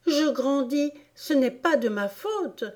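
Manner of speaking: high-pitched Alice excusing herself; protesting Alice. Acted. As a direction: JE GRANDIS in a high, rising voice.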